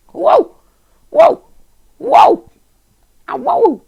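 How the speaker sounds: high loud whoas one after another; excited whoas. Real, not acted. Gamer whooping as glass rains down. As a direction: cheer each whoa in awe.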